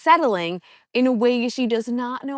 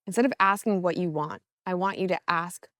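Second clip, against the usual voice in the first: calm, measured meditation voice with long pauses; guided meditation; 2 semitones lower, 4 dB quieter than usual. Acted. Coach easing listeners into a mindful walk, guided meditation. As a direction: guide them gently through breath and steps.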